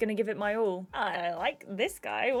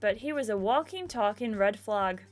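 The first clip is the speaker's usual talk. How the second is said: put-on Irish accent. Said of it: "I'm sorry for the accents".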